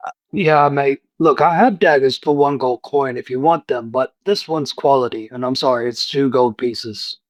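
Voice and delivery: lightly voiced tradesman; a hint of a polite smith; apologetic shopkeeper. Blacksmith explains price.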